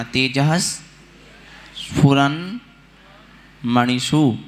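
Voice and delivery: तेजः स्फुरन्मणिषु in parts, "tejahs", "sphuran", "manishu"; correct sandhi. Shown as a demonstration. Teacher shows how to read तेजः स्फुरन्मणिषु, piece by piece. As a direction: break up तेजः स्फुरन्मणिषु with no i before s. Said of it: "ऐसे पढ़ना".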